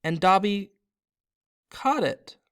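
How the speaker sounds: high, slow elf voice, rising to joy; squeaky little elf, triumphant; overjoyed elf, high and slow; Dobby the house-elf. Acted. Elf Dobby exults at his freedom.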